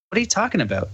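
high shocked disbelief; stunned question. Retold or imitated. Hearing the drunk man's confession, stunned and high. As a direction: ask it high, thrown off.

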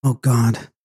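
understated gasped prayer of dread; a touch of fear, held in; fearful exclamation. A narrator's reading. Terrified Flora cries out to God.

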